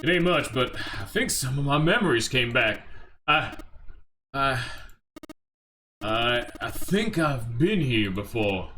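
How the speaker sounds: hesitant recollection, halting delivery; lightly voiced Seven. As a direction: piece a memory together with pauses.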